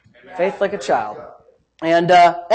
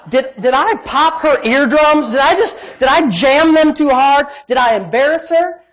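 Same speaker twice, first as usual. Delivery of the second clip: retold panic; 4 semitones higher than usual. Youth leader fearing he popped her eardrums, mildly panicked. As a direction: replay your worried self-questioning, voice raised. Retelling his panic after praying.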